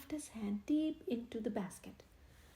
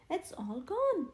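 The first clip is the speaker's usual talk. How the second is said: higher, louder admission; sheepish confession; 7 semitones higher, 5 dB louder, slower than usual. A narrator's reading. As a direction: own up sheepishly. Stanley confessing.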